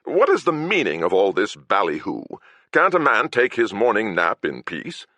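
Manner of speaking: a hint of a fussy nobleman; lightly put-on pompous lord; Lord Huckleberry voice. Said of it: "In my Lord Huckleberry voice".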